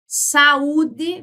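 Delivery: "saúde" slowly as sa-ú-de, u on its own; teacher separating the vowels of "saúde"; hiatus pronunciation. Shown as a demonstration. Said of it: "quando eu falo pra você assim".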